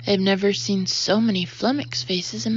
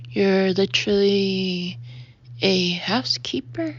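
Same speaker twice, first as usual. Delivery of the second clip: stuttering. Acted. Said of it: "stutters Eldridge at last".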